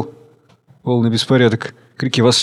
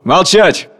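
sharp command; 5 semitones higher, 3 dB louder than usual. Acted. Chairman silencing the hall again. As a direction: bark for silence.

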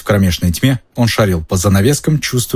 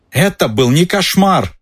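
high, slow, insistent yell; 9 semitones higher than usual. Acted. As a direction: yell it to be believed. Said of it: "завопил Рон".

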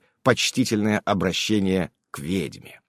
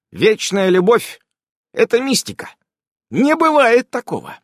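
stern witch voice; 12 semitones higher, 6 dB louder than usual. A narrator's reading. Irene lecturing.

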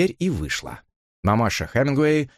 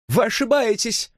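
high, trembling cry of denial; trembling exclamation; 13 semitones higher than usual. A narrator's reading. Susan protests to Elisa, high and shaken. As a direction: blurt it out, shaken. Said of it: "воскликнула она дрожащим голосом".

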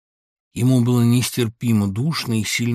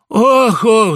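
high, loud groaning sigh; sleepy friend sighing heavily; 12 semitones higher, 14 dB louder than usual. A narrator's reading. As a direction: heave a big sigh. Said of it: "вздохнул Самойленко".

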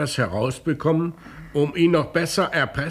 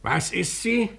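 startled question; 7 semitones higher than usual. Acted. Commissioner hears of pregnancy.

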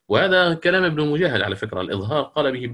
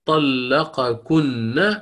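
slow recitation; much slower than usual. Shown as a demonstration. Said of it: "وجهان".

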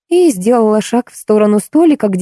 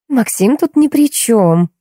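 slow, higher-pitched, calm explanation; 6 semitones higher, slower than usual. A narrator's reading. Woman clearing Maxim of blame, calm and slow. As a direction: explain it patiently and unhurriedly. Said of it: "спокойно пояснила собеседница".

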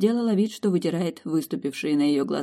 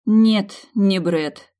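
glum; 4 semitones higher, 7 dB louder, much slower than usual. A narrator's reading. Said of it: "хмуро подтвердила".

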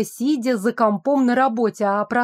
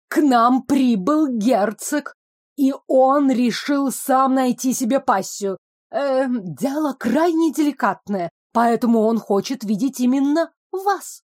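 out of breath; 3 semitones higher than usual. Acted. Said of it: "Глубокий вдох и глубокий выдох".

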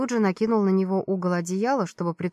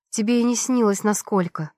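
angry snap. Acted. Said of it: "зло огрызнулась я".

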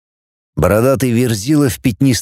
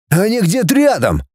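mild cry out; 8 semitones higher than usual. Acted. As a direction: call out an alert in a raised pitch. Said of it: "крикнул он". (сдержанно крикнуть высоким голосом)

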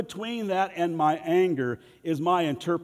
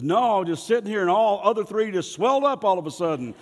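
sarcastic comeback; 3 semitones higher, 4 dB louder than usual. Retold or imitated. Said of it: "He goes".

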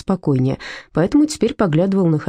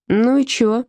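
lazy greeting; 6 semitones higher, slower than usual. Acted. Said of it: "лениво встретил её продавец".

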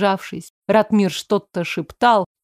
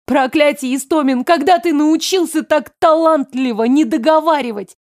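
higher-pitched, agitated scolding; angry reproach; 5 semitones higher, 4 dB louder than usual. A narrator's reading. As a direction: berate your brother, voice raised in pitch. Furious sister confronting her brother. (гневный упрёк)

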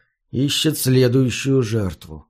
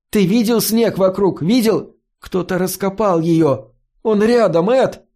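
urgent, rising higher to a near cry; alarmed; 6 semitones higher than usual. Acted. Фари в страхе торопит Эда уйти. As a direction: press him, voice climbing in alarm. Фари в тревоге про убийцу.

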